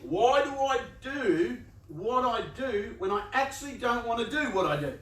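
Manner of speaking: mock exasperated question. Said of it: "you go".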